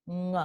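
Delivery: isolated "Ng" as at the end of song; velar nasal sound. Shown as a demonstration. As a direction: hum "Ng" from the back of the mouth. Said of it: "como la N de song".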